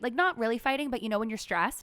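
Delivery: ordinary talk, nothing marked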